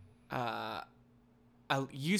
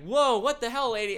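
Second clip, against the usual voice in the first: imitating an outraged bystander; 8 semitones higher, 6 dB louder than usual. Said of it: "this other guy's like".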